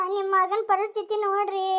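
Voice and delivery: tearful, choked plea; weeping wife begging; crying plea. Acted. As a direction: sob it out to her mother-in-law. Wife crying to mother-in-law.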